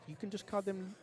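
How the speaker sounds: put-on hammy French accent from a Georgia boy. Joking to the co-host that crepes are thin pancakes, in a Georgia boy French accent. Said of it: "a Georgia boy French accent".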